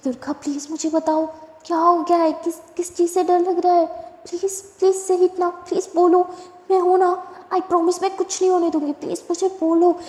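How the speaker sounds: worried friend begging her to say what scares her; urgent pleading. Acted. Begging frightened friend to speak.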